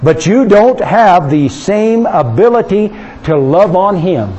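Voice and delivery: ordinary talk, nothing marked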